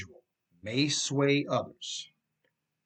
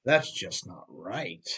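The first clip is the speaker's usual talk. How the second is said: Ed's reaction; 6 semitones lower, 4 dB quieter, slower than usual. Acted. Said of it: "and he says".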